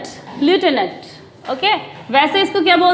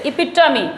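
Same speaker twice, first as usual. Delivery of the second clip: एपिटमी with weight on the t syllable; epi-TUH-mee for एपिटमी; stress on ट. Shown as a demonstration. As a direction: punch the t inside एपिटमी. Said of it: "ट पे stress है".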